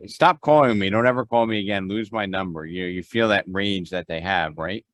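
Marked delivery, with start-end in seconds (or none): 0.1-2.6 loud, fast angry outburst; angry caller. Retold or imitated. Realtor imitating a lead yelling at a cold call. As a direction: snap it out like a furious lead.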